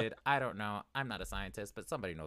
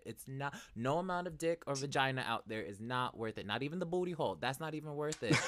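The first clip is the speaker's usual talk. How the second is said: raised, insistent cautionary plea; emphatic warning; 5 semitones higher, 4 dB louder than usual. Real, not acted. Podcaster warning anybody against dating at work, emphatic. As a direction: warn them off with real force.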